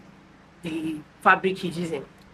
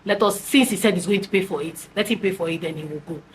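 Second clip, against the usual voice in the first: soothing husband; 3 semitones lower than usual. Retold or imitated. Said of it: "My husband was not telling me".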